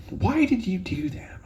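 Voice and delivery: hushed whisper imitating mom. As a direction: breathe it like a shocked whisper. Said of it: "And she's like".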